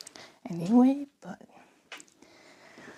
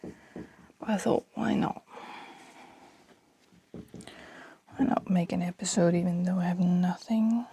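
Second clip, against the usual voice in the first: whispering. Real, not acted. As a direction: keep it hushed, mother in the next room. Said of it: "I don't know why I'm whispering so much".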